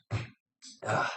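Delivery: quick nose blow into a tissue; breathy blow through the nose. Real, not acted. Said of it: "I have to blow my nose".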